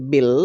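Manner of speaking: "বিল" as one syllable, "bil"; syllable demo. Shown as a demonstration. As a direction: sound out "বিল" clearly for learners. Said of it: "এই তিনটার উচ্চারণ হবে".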